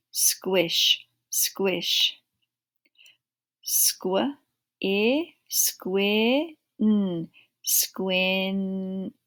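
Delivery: sounds stretched then blended into words; phonics blending drill. Shown as a demonstration. Teacher drilling a class on blends, slow and clear. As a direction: sound it out slowly for young readers.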